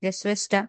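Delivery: "গেসওয়েস্টা" ending in an open A; final R as A. Shown as a demonstration. Teacher showing student the final German R, said as A. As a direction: end "গেসওয়েস্টা" on a vowel, no R. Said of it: "লাস্টে কি আর মতো উচ্চারণ".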